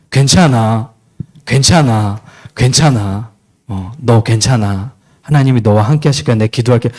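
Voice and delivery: 친구를 달래는 낮고 다정한 목소리; comforting friend. Acted. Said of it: "승주는 진정한 친구잖아".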